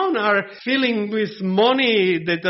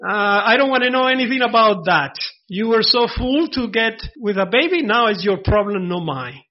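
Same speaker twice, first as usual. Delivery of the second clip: mock careless father; 3 semitones higher, 3 dB louder than usual. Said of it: "the father say".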